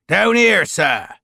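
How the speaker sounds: loud, high shout back uphill. A narrator's reading. Barker shouting up to Lavisser, loud. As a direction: call up to the master. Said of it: "Barker shouted".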